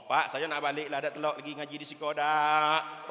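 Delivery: plain pleading to dad on the phone; a touch of tearful begging; retold whimper. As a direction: say it as a mild homesick plea. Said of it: "Sambil melimeh".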